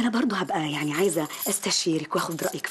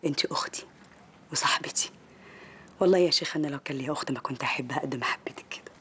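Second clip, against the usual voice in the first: tender whisper; 3 semitones lower than usual. Acted. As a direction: hush it like a loving sister. Tearful farewell between friends. (همس عاطفي صادق)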